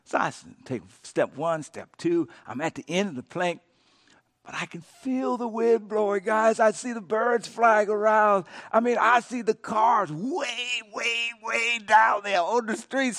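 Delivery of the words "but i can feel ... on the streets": alarmed storytelling. Retold or imitated. Reliving fear atop virtual skyscraper.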